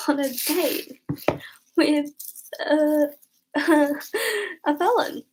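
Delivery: giggling through the words; laughing at herself. Real, not acted. Telling viewers about dating a felon, laughing. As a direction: laugh while admitting it.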